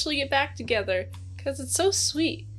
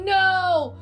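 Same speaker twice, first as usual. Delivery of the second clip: mock scolding; 5 semitones higher than usual. Scolding the rude clerk.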